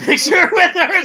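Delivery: amused, laugh breaking in. Real, not acted. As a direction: crack up while telling it. Laughing as he tells the story.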